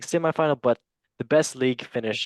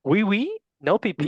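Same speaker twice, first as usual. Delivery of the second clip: playful echo; 7 semitones higher than usual. Pretend. Playfully echoing players' French answer.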